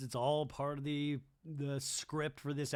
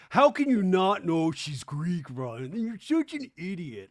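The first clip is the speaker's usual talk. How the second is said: mock outrage; 3 semitones higher, 8 dB louder than usual. Imitates an outraged online commenter.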